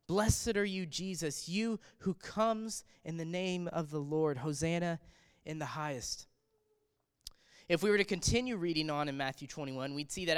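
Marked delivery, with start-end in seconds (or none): 0.1-6.3 crowd cry. Retold or imitated. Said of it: "is what the people cried out".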